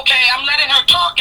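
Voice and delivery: evenly voiced retold patience; controlled, unbothered reply; calm. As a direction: quote yourself staying composed. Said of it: "I'm sitting real calm".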